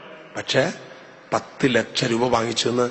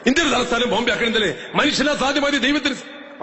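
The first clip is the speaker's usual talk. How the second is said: put-on high, loud, earnest childlike pleading; loud child prayer; 12 semitones higher than usual. Child prays aloud in church for Bombay as capital, high and earnest. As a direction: beg like a child cramming a wish. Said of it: "quotation പറഞ്ഞു".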